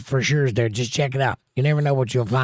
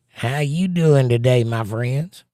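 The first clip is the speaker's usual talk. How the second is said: lightly put-on Southern accent, drawn out; 3 dB louder, slower than usual. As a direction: read it with a hint of a slow Southern drawl. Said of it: "she has a southern accent".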